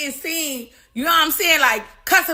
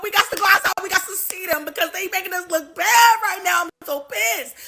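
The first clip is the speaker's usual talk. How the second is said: higher, half-shouted orders down the phone; pissed-off phone shout; 5 semitones higher than usual. Retold or imitated. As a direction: rant like a boss losing his temper on a call. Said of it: "They call friends".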